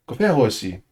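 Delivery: Tongan "Gofe ahosi", each syllable clear, falling at the end; careful Tongan pronunciation; Tongan phrase. Shown as a demonstration. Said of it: "I'm saying".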